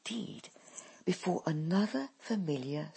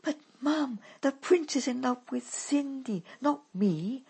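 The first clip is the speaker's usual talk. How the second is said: higher, a hint of someone else's voice; voice not her own; 9 semitones higher than usual. A narrator's reading. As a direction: sound not quite like yourself. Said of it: "she says in a voice that isn't hers".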